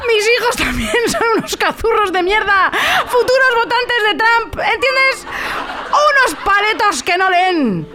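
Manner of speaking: high-pitched hammed-up rant, breaking into laughter; laughing mock rant. To her co-host, voicing Meryl's hatred of her family, laughing high and slow. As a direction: cackle through an over-the-top housewife rant.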